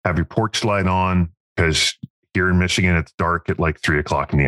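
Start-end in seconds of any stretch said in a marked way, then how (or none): 0.1-1.3 slow, friendly call to a customer; slow phone call. Retold or imitated. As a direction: say it slowly over the phone. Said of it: "call back every customer".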